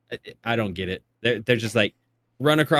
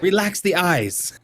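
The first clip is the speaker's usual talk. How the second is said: coaxing photo parent; 6 semitones higher, slower than usual. Retold or imitated. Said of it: "I'm like".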